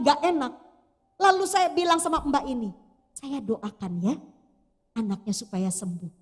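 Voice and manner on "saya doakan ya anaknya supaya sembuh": quiet pastoral tenderness, retold; gentle reassurance. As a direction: lower your voice to reassure her. Retold offer to pray for child.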